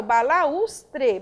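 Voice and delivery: "balaustre" as one slow, clear word; measured teaching "balaustre"; careful pronunciation. Shown as a demonstration. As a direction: say "balaustre" whole, carefully for learners. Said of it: "eu tenho us também".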